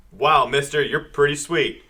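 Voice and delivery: lightly voiced awestruck kid; a hint of a starry-eyed boy; wholesome 1950s kid. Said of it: "He's like a seven-year-old with a baseball cap".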